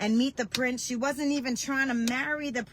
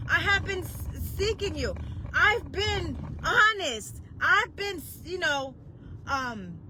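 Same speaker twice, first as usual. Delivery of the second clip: much higher, tearful pleading; crying out to God; 6 semitones higher than usual. Retold or imitated. Preacher retelling how she cried at God, tearful high plea. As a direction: let the voice crack as you plead. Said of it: "I cried to God and I yelled at him".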